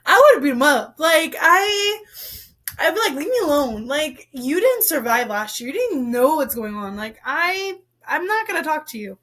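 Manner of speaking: exasperated mock outburst; irritated. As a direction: sound fed up, as if telling off pushy reporters. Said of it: "I got so irritated".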